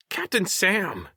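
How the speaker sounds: high, drawn-out bleat; slow high-pitched creature call. A narrator's reading. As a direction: bleat the name like a small creature. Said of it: "Wish bleated".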